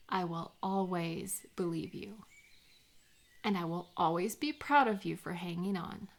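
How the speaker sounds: soft, sincere reassurance; tender reassurance. Acted. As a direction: gently tell them you see them. Reassuring a struggling friend.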